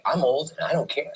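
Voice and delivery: put-on old dog's voice. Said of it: "She's like".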